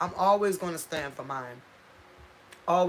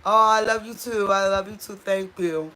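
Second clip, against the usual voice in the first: pretend phone call; 2 semitones higher, 8 dB louder than usual. Friend answering a surprise phone call, loudly delighted. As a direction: act out a friend loving the call. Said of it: "call 'em".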